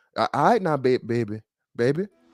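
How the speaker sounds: put-on grandma voice. Sharing an old folks' proverb, the speaker hits the audience with a grandma voice. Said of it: "Hit you with that grandma voice".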